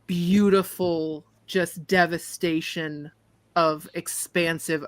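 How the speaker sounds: slow, drawn-out scene setting; game master's narration. Acted. Game master describes a vast ocean to Prophet, slow narration. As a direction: paint the scene slowly, with pauses.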